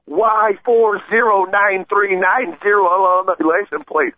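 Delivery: high, slow, spaced-out bellow of the plate number; screamed plate number. Retold or imitated. Cyclist yelling the hit-and-run driver's plate across the intersection, slow high shout. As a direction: call each digit out so bystanders remember it. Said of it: "And then I screamed".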